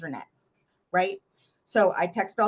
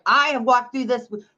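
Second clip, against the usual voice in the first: loud, higher indignant friend rant; mock angry friend; 6 semitones higher, 5 dB louder than usual. Bestie scolding her over the husband, indignant loud. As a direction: play the furious bestie, loud and high. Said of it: "She was pissed".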